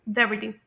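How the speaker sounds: brevity with the t flapped like a light d; American pronunciation. Shown as a demonstration. Teacher repeating for learners, American pronunciation of brevity. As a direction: say "brevity" American style, t softened to d. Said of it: "slightly डी की तरह pronounce किया जाता है".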